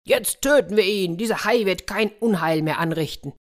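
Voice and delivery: rally the mob against the enemy; determined threat. Acted. Armed villagers vow to kill the shark, determined threat.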